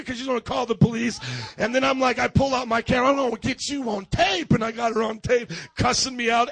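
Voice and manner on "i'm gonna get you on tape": loud, raised-pitch warning; retold threatening shout. Pastor filming his cussing neighbor, re-enacted loud threat. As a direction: call it out as a challenge.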